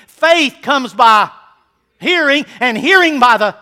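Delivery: loud, slow, each word held; preacher leading the verse slowly; slow call-and-response. Shown as a demonstration. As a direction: lead the congregation through the verse. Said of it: "Finish this verse with me".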